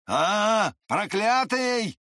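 high, slow angry curse; furious shout from behind the door. A narrator's reading. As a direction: yell it through the door. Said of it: "послышался вдруг голос Ламберта".

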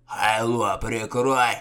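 snapping. A narrator's reading. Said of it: "огрызнулся Угрим".

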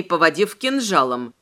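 ordinary delivery

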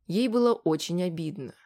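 ordinary delivery

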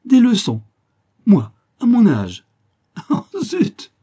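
high, loud, bursting into laughter; laughing out loud. Acted. Flavie laughing at the baron's idea, loud and high. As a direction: laugh the words out in disbelief. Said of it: "en riant aux éclats".

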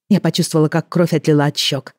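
plain reading voice

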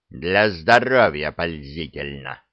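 low, slow grumble; grumbled. Acted. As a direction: mutter it sulkily, low. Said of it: "буркнул дракон". (буркнул)

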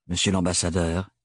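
low, cold greeting to a rival; icy tone. Acted. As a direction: chill the words. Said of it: "prononcés sur un ton glacial".

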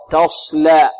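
"تصلى" with pursed lips on the s; "تصلى", its s hooded toward sh; rounded-lip sad. Shown as a demonstration. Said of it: "ولا نضم الشفتين في الصاد".

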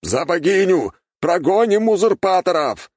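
high loud rallying shout; rally everyone into the charge; soldiers' war cry while charging; battle cry. A narrator's reading.

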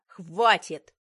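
he shouts at his wife to stop arguing, furious shout; loud shout. A narrator's reading. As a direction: bark it out to cut her off. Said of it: "Его голос вдруг стал громче".

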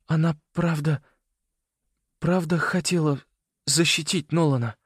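put-on high boy's voice, asking shakily; a boy asking through tears; trembling voice. A narrator's reading. Simon asking Leo with a trembling voice. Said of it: "спросил он дрожащим голосом".

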